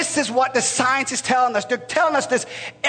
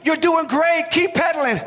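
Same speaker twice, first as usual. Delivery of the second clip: called back; 4 semitones higher than usual. Retold or imitated. Father calling to his son on the bike, encouraging. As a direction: yell encouragement back down the street. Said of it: "he will yell back".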